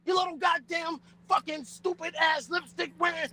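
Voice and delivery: angry shout. Acted. Furious insults during brawl.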